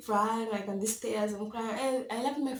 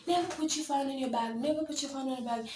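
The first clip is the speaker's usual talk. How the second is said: mildly raised pitch, imitating a warning mom; mother's warning; 4 semitones higher than usual. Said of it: "she always warned me".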